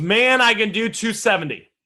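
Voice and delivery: ordinary talk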